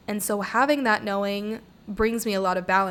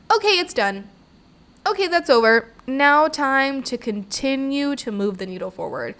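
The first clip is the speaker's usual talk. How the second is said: brisk reset; 5 semitones higher, 4 dB louder than usual. Retold or imitated. Snapping out of sadness.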